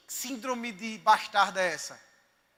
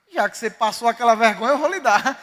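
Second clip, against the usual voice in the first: a louder quote, laughing through it; God's words, laughing; 3 semitones lower, 5 dB louder than usual. Retold or imitated. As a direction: deliver God's promise with amused warmth, louder. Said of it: "o Senhor disse pra mim".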